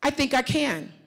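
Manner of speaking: hesitant, stepping back; unsure demo answer. Shown as a demonstration. Coach demonstrates a weak answer, hesitant and unsure. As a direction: say it like you doubt yourself. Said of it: "ask me that".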